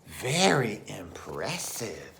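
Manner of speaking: mouse exclaiming. Acted. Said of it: "exclaimed the mouse".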